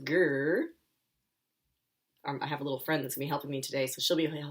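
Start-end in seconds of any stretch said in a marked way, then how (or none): 0.0-0.6 mild growl. Shown as a demonstration. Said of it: "So he says".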